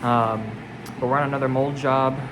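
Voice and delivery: speaking through a safety mask; muffled, mask over the mouth; muffled behind mask. Real, not acted. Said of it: "I don't know if you guys can hear me well with this mask on".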